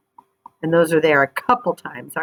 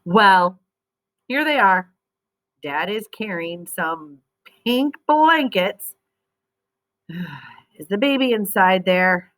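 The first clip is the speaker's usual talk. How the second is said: lively storybook reading voice; expressive read-aloud for young readers; reading to children. Acted. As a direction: read it like a picture book to kids.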